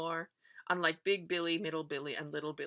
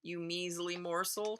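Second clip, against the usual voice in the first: booming troll; 4 dB louder than usual. Acted. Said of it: "Troll booms from below".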